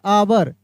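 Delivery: आवर said with no h, starting on the vowel; आवर, vowel first, no h sound; pronounced hour. Shown as a demonstration. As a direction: say आवर with a silent h. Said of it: "इसको हम लोग पढ़ेंगे ना, आवर पढ़ेंगे".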